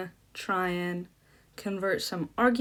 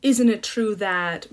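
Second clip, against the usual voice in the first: slow leading question; 6 dB louder, slower than usual. Shown as a demonstration. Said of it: "you can get to that kind of".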